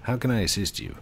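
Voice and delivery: put-on a light Australian accent as a help desk worker; polite phone support, lightly Australian; answering the help desk line in a mild Australian accent. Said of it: "I like my Australian help desk voice".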